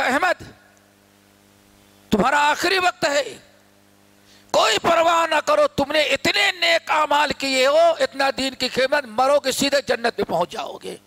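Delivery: lightly voiced tempter, lifted in pitch at first; flattering praise. Satan praising Ahmad at his death, mildly flattering. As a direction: reassure him with easy praise. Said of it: "ہمیں شاباشی دے کر کے".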